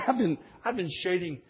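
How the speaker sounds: laughing through the admission; rueful laugh while confessing. Retold or imitated. Laughing at his own past.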